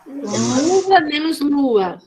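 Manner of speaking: very slow, puzzled-out LUVA menos LUA; drawn-out word sum; syllable demonstration. Shown as a demonstration. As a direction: stretch each word to test it. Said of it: "manipulação silábica".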